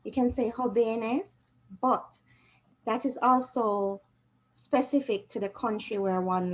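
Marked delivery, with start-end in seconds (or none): 0.5-1.3 "jóvenes" with the v said as a soft b; soft B sound. Shown as a demonstration. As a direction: say "jóvenes" like "hó-be-nes", softly voiced b. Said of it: "like a soft B sound".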